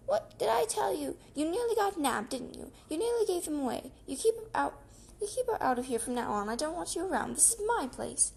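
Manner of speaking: high, loud, indignant squeal; shrieking rat. A narrator's reading. Rat shrieks down at the foxes from his shelf, high and loud. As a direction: scold them like a furious little rat. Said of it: "Rat stood on his high shelf and shrieked".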